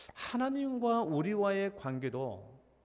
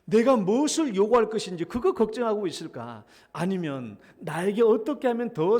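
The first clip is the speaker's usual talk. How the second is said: preaching emphasis; 3 semitones higher, 6 dB louder than usual. Real, not acted. Preacher builds to question.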